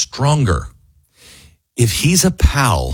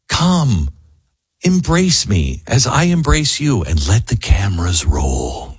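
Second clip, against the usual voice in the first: mock translation.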